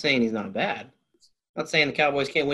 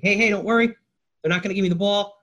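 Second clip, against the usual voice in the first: raised, higher-pitched call-out; imitating a player calling out; mock yell; 6 semitones higher than usual. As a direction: call across to opponents in a playful mock yell. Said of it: "yells to the Cowboys defense".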